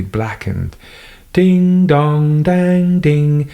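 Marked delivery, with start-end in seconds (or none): 1.3-3.5 slow, high, desperate plea; frantic cry. A narrator's reading. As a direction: beg it over the noise, drawn out. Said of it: "cried Mister Hislop".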